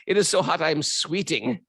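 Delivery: lightly imitated Russian-French accent; a hint of a muddled French-Russian accent; Tatiana. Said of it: "I'm doing a Russian French accent".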